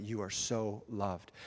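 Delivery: slow, soft and low affirmation; tender reassurance. Retold or imitated. Speaker retelling how he assured a stranger, slow and tender. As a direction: draw it out gently so she believes it.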